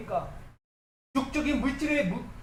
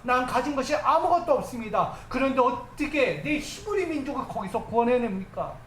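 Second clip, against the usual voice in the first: insistent run of raised rhetorical questions; protesting excuses. Acted. Preacher as Moses telling God he has nothing, protesting excuses. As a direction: pile up excuses as an urgent protest. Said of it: "변명하기 바쁜 거예요".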